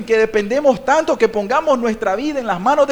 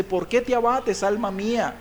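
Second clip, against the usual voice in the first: softer, inward questioning; reflecting to oneself; 6 dB quieter than usual. Acted. Psalmist talking to his own soul, reflective and softer. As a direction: ask your own soul, softly. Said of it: "reflexionando consigo mismo".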